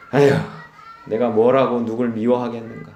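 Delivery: acted, subdued self-reproach; humbled resignation. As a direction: sigh it out like someone giving up. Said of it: "사람이 마음이 낮아져요".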